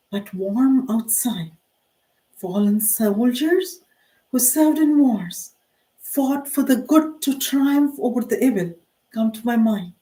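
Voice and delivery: measured poem recital with pauses between lines; poetry reading. Acted. Poet reading her own war remembrance poem aloud, measured recital. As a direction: recite it line by line, pitch lifting on each phrase.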